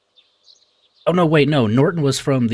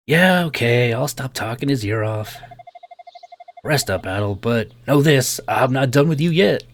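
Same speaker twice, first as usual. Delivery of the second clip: lightly Southern game character; Southern accent. Acted. Young man backs off from patient, light Southern accent. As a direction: give the lad a touch of Southern twang. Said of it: "like, a southern type of accent".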